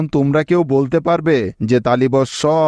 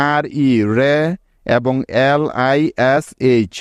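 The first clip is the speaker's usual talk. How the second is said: slow spelling out. Shown as a demonstration. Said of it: "মোট দুটি syllable পেলাম".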